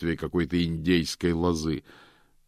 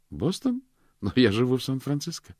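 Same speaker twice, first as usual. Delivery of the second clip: a much higher woman's voice, baffled; surprised woman; 8 semitones higher, 3 dB louder than usual. A narrator's reading. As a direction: she can't believe it's Boston. Miranda voiced, puzzled.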